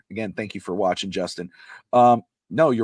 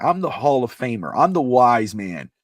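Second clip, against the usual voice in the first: raised, heated rant as Heyman; a mock furious rant, louder and higher; angry yell; 5 semitones higher, 5 dB louder than usual. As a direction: belt it out like a furious manager losing control. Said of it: "He screams".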